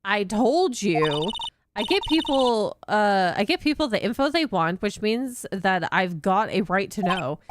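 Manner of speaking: a hint of a Southern reporter insisting; Southern accent. Reporter arguing with the cop, light Southern accent. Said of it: "That southern accent could only mean".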